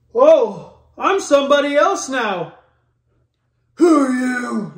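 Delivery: loud, high, hammed-up bewildered soldier; mock dazed Chief. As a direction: ham up a baffled man in a helmet. Mocking Chief's identity crisis.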